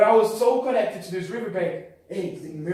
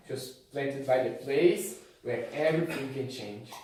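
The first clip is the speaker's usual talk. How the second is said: hushed preaching; 3 semitones lower than usual. Acted. Low intimate preaching.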